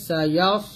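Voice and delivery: "ইয়াস" with a heavy, full-mouthed s; thick sad. Shown as a demonstration. Teacher shows the heavy letter, thick s in "ইয়াস". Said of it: "এখানে সাদ মোটা করতে হবে".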